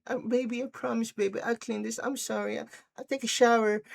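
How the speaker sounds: small, high, soft pleading voice; mock apologetic girlfriend. Girlfriend promising boyfriend she'll clean, meekly apologetic. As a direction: plead softly like a sorry girlfriend.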